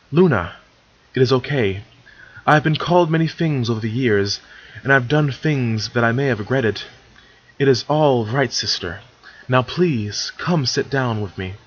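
mildly sincere, even-voiced reassurance. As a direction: gently reassure an upset sister, with understated sincerity. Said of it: "Celestia said sincerely".

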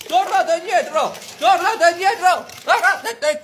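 richiamo. Acted. Richiama chi se ne va.

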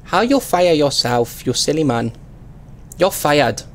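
hammed-up Chinese-style accent in broken English; mock broken-English accent. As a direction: play a delivery driver with a crude Chinese accent. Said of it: "the worst and most offensive accent".

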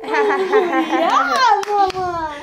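laughing cheer. Real, not acted. Mother cheering the kids on while laughing, loud and laughing.

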